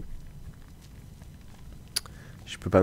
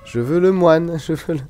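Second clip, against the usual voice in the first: laughing whine; 9 semitones higher, 7 dB louder than usual. Real, not acted. Whining for the monk, laughing.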